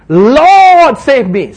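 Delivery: desperate cry. Acted. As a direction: cry out for rescue. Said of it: "sinking Peter cries".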